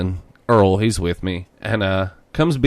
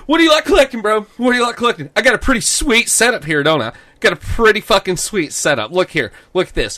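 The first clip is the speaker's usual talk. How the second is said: much higher, pushy bro voice; imitating the bro salesman; 9 semitones higher, faster than usual. Quoting the pushy clerk, high bro voice. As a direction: show off your setup like a pushy bro. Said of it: "I'm gonna quote this guy".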